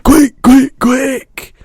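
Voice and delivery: very high, loud urgent calls; frantic urging. A narrator's reading. BFG hurrying Sophie for a jar, frantic. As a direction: rush her frantically. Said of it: "he cried".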